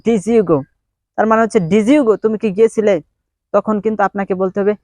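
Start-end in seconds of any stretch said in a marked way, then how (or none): 0.1-0.6 "Did you" run together as "dizzyoo"; contracted American-style "Did you", like "dizzyoo go"; American short form. Shown as a demonstration. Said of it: "এটাকে সংক্ষেপে আমেরিকানরা বলে". 1.7-2.1 "Did you" run together as "dizzyoo"; contracted American-style "Did you", like "dizzyoo go"; American short form. Shown as a demonstration. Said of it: "এটাকে সংক্ষেপে আমেরিকানরা বলে".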